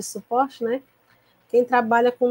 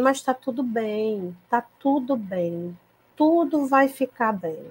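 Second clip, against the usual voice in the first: calm soothing; slower than usual. Retold or imitated. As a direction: settle a frightened child with calm. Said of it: "transmitindo pra ele a calma, a tranquilidade".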